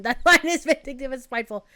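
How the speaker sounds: laughs at the quoted line as she says it; laughing disbelief. Real, not acted. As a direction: chuckle through it in disbelief.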